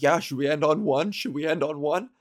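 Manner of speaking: mock-casual bluff; faking confidence. Pretending to bandmates she knows the lingo, breezy. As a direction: act like you know it. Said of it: "I pretended like I knew".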